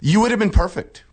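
high put-on English accent; bad Cockney impression; mock Cockney. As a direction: imitate a Cockney woman, pitched well up. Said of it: "she was real cockney".

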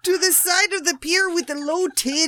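hammed-up English accent hello; mock English accent; put-on English accent. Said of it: "Tell me that's your English accent".

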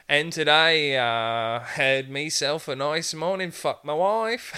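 pompous anchor voice, slowing at the end; mock British newsman. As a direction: read it like a stiff UK news anchor. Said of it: "The guy's just like".

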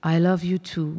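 lightly voiced city, faint and remote; howled by the city. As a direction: let the traffic murmur it back. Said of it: "jault es aus den Motoren".

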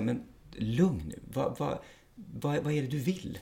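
slow, soft calming words to an agitated person. Retold or imitated. Officer calmly talking down an agitated person, slow and soft. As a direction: settle him down gently and slowly. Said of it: "bara vara lugn och bara säga".

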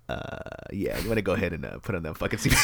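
mock pilot announcement, voiced low; lazy pilot voice. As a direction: drop low like a bored pilot. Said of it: "the pilot's like".

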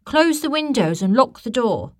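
loud, high, urgent shout; urgent yell. A narrator's reading. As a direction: shout the order in a panic. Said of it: "she yelled".

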